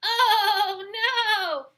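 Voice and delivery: high, loud wailing bleat; bleating sheep. Acted. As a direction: wail it like a frightened sheep. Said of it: "bleated the sheep".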